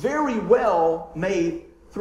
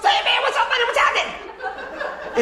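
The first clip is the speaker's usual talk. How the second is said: very high-pitched, casual voice. Talking about a man he has met, the speaker does his voice: Randy impression. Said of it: "I can do his voice perfect".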